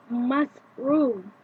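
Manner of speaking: slow "math room", stress on "math"; first-syllable stress. Shown as a demonstration. Teacher demonstrating word stress, slow stress on "math". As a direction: say "math room" slowly, leaning on "math". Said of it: "The first syllable is stressed".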